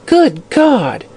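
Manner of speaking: high gasp of astonishment; shocked outburst; astonished. A narrator's reading. Astonished exclamation.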